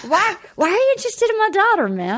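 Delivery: mock dazed-dude dad; Matthew McConaughey. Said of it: "totally dazed and confused Matthew McConaughey".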